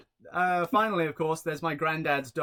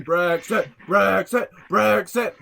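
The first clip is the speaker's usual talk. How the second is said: louder calls joining in; crowd calling; 2 semitones higher, 8 dB louder, slower than usual. Retold or imitated. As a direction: chant the name like a crowd. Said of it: "they started going".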